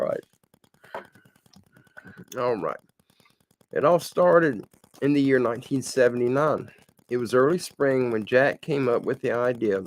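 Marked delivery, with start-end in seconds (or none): 3.7-9.8 reading a written story aloud; read-aloud storytelling with measured phrasing; story narration. A narrator's reading. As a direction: tell it as a homespun story, evenly. Reads submitted story aloud.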